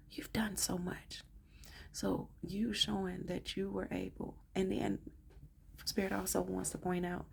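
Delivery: soft, hushed and teary; barely holding it together; choking back tears. Real, not acted. Reader moved to tears, telling the client they're seen. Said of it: "I'm trying not to cry".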